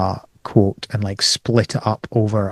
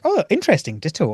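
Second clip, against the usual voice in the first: surprised "oh"; 7 semitones higher than usual. Retold or imitated. Retelling own reaction to trailer.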